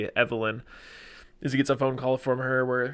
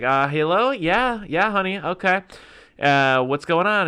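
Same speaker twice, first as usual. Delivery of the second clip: a bit louder and higher, breezy and uninterested; indifferent on the phone; 6 semitones higher, 6 dB louder, slower than usual. Retold or imitated. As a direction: brush her off, half-listening. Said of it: "him not giving a shit".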